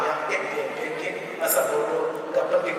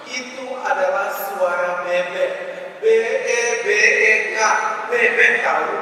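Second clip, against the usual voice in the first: exasperated husband; 4 semitones higher, 5 dB louder than usual. Retold or imitated. Husband spells it out for his wife, growing exasperated. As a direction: build to a high, loud, irritated retort. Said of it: "Sambil suaminya mulai terasa gusar".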